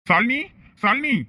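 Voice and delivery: calling out. Acted. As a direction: call her name across the empty desert. Wife walking away with someone.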